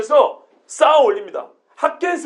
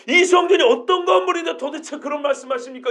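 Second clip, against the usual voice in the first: protesting; 3 semitones higher than usual. Shown as a demonstration. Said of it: "이렇게 묻는 거예요".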